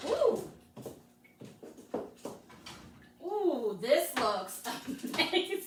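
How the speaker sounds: real joy at the finished bake; delighted. Real, not acted. Host opens oven to her roll, delighted squeal.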